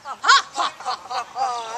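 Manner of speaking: loud mocking ha-ha laugh; booming scornful laughter; king laughing. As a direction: laugh down at the chick.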